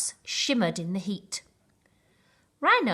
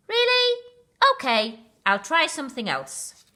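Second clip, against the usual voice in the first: surprised; 8 semitones higher, 6 dB louder than usual. Acted. Baboon surprised then tries again.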